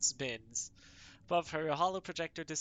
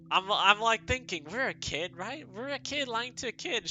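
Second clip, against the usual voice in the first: excited pleading; 9 semitones higher, 8 dB louder than usual. Real, not acted. Excited reasoning.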